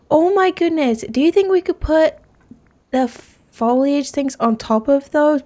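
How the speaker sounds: high, delighted rush of an idea; excited. Real, not acted. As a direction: gush over a new idea. Delighted new building idea.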